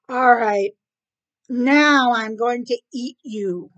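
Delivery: loud, slow, deliberate threat; threatening cat. Acted. Cat to rat on the beach, menacing. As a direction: announce it forcefully, drawing the words out.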